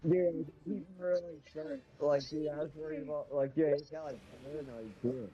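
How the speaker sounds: muffled, as if through a hand. Real, not acted. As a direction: hand over mouth. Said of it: "it sounds like not muffled, but kinda muffled".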